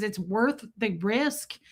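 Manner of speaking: unintended Southern drawl on "risk"; Southern accent. Real, not acted. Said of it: "did I just do that in a Southern accent".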